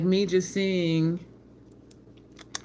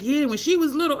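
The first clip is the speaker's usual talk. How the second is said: teasing cousin; 9 semitones higher, 4 dB louder than usual. Retold or imitated. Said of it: "he'd be like".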